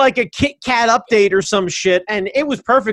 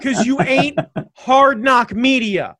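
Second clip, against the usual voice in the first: mock trash talk; 4 semitones higher than usual. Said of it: "this is my new persona".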